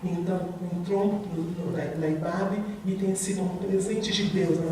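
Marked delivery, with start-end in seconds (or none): none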